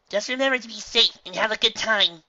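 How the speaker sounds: high, loud motherly voice; caring mother. A narrator's reading. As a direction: send her off kindly. Mother's parting advice.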